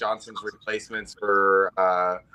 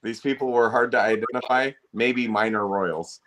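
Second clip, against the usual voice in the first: slow deadpan quote. Retold or imitated.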